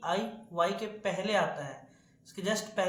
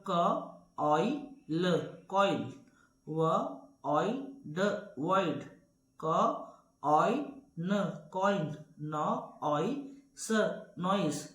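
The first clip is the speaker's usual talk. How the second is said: teacher breaks each word into its sounds, then says it whole; phonics sounding out; much slower than usual. Shown as a demonstration. Teacher to students: slow sounding out of each letter. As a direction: sound out every letter slowly for the class, then blend.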